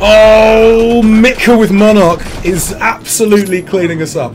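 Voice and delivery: loud, high burst of amazement; excited exclamation. Real, not acted. Streamer watching an enemy wipe his team, loudly amazed. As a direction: call it out like a stunned commentator.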